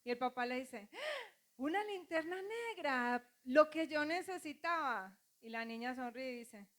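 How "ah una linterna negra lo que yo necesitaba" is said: high, exaggerated gasp of delight; delighted surprise. Father thanking his little daughter, mock delighted surprise. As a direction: act thrilled with the gift.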